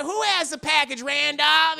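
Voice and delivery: high, loud imitated wife. Wife questions her shouting husband, high and urgent.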